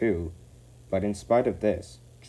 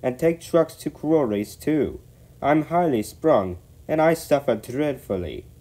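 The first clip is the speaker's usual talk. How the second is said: high, loud self-pitying whinge; grumbling complaint; 7 semitones higher, 5 dB louder than usual. A narrator's reading. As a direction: complain in a raised, put-upon voice. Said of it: "grumbled continually".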